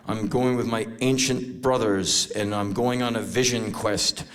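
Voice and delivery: slow, low incantation; solemn vision-quest mystic. Acted. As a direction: intone it slowly like a mock shaman.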